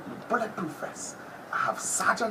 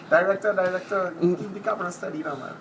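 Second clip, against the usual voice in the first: calling out; 4 dB louder than usual. Real, not acted. Calling out to director.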